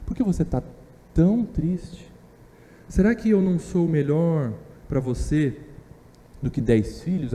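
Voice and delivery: a loving husband quietly asking why she cries; tender husband. Retold or imitated. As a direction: ask it softly, like a husband worried for his wife. Husband consoling his wife.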